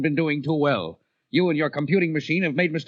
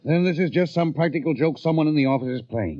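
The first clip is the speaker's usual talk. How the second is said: agitated insisting; 8 semitones higher than usual. Acted. Heated argument with the boss.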